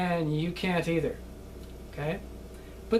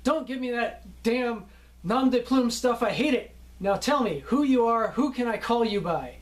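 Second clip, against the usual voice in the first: mock blunt director, higher and louder; gruff director; 6 semitones higher, 3 dB louder than usual. Director scolding an actor over stage names, in a raised mock growl. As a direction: bark it like an impatient film director. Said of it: "look at you periodically and go".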